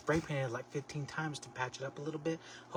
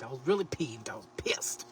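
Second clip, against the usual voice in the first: whispered confession of anger. Real, not acted. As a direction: admit it in a whisper. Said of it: "I was not a little peeved".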